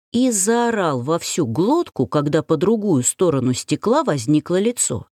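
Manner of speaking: ordinary delivery, nothing marked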